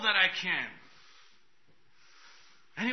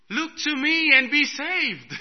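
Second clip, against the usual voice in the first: much higher, louder and slow proclamation; booming voice of the Lord; 9 semitones higher, 8 dB louder, slower than usual. Retold or imitated. The Lord commanding the preacher, booming and slow. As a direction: proclaim it like God from heaven. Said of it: "The Lord said".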